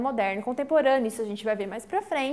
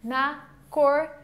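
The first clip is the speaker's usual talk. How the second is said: ordinary talk, nothing marked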